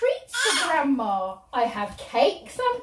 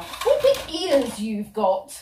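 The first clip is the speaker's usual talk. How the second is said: put-on slow wondering girl; 5 semitones lower, much slower than usual. Girl's famous line, slow.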